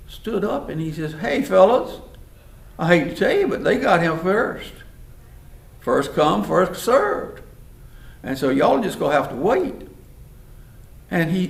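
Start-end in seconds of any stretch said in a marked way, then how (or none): 1.1-9.9 mildly raised, assertive voice; lightly acted standing up to bullies; firm challenge. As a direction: stand your ground, a bit louder. Moses stands up to the boys.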